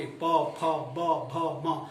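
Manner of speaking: प फ ब भ म, lips meeting on each; lip sounds. Shown as a demonstration. Teacher demonstrating lip sounds to students, clearly articulated. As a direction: press the lips together for प फ ब भ म. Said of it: "ये जितने भी उच्चारण हमने किए".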